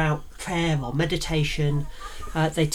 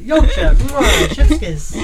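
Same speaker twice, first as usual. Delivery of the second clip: loud chef's kiss; 3 semitones higher, 11 dB louder, slower than usual. Pretend. Acted enthusiastic praise of Yorkshire.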